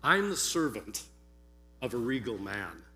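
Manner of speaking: measured, theatrical storyteller with deliberate pauses; first-century servant. Acted. Servant describing his regal master to listeners, measured dramatic monologue. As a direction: perform a servant's monologue, weighing each description, swelling on the strong words. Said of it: "assume that I am dressed as".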